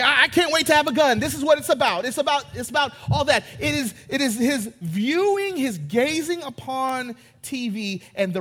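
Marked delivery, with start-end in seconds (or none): 0.0-3.4 lightly voiced eager kid. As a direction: gush about the gun like a boy.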